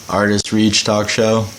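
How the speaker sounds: robot voice. Pretend. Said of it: "Okay, that is better".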